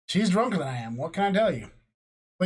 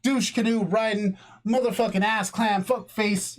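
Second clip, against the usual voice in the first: mock angry rant; 4 semitones higher than usual. Shown as a demonstration. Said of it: "A tangent is more like".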